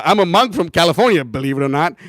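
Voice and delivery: lightly imitated stock catchphrase, starting loud; Vijay Prabhu. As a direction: mimic a well-worn sales line. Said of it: "he says that to everyone all the time".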